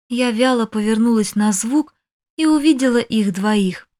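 ordinary delivery

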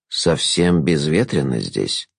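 low, slow tutting remark; tutting jester. A narrator's reading. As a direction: click the tongue, drawling. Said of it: "цокнул языком Шут".

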